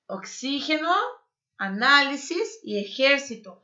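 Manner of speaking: "Oxígeno, análisis e exército" modelled in Spanish, word by word; Spanish "Oxígeno", stressed on "xí", then "análisis" and "exército"; Spanish pronunciation. Shown as a demonstration. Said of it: "É assim que se fala em espanhol".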